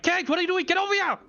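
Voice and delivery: very high, exasperated summons; urgent call. Acted. Player calls Cage again, urgent and exasperated. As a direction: hurry him over in a high, pressing voice. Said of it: "Immediately I call Cage again".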